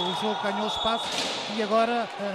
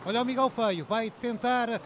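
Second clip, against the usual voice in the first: building to a shouted goal call; fast dramatic football commentary; 6 semitones higher, 7 dB louder, slower than usual. Real, not acted. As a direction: explode on the goal, then stretch it.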